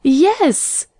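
high, swooping mock exclamation; mocking his tone. A narrator's reading. Young woman mimics Carlton's astonished shout, mocking. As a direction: echo his astonishment teasingly, pitched well up. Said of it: "mocking his tone".

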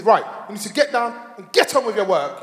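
lightly voiced school teacher; mildly put-on classroom authority. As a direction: instruct like a supply teacher. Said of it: "that school teacher voice".

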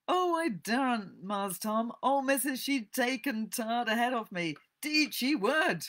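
put-on high, loud protest in Southern dialect accent; Jim. A narrator's reading. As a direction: refuse fearfully in old Southern American dialect. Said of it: "Sorry about the accent".

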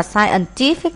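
"scientific" with the weight late, on "ti"; third-syllable stress. Shown as a demonstration. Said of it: "nhấn âm ba".

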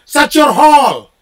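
slow, loud Aussie-style Shut your hole; Aussie phrase demo. Shown as a demonstration. Teaching a Balinese friend Aussie slang, slow and loud. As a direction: teach the Aussie line slowly and loudly. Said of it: "you know what you tell them?".

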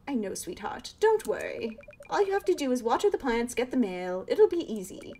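a touch of a nagging mother pleading; pleading mom. Acted. Mom's dialogue voiced.

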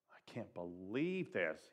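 weary dad groaning. A narrator's reading. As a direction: groan it out, worn down. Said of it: "he groaned".

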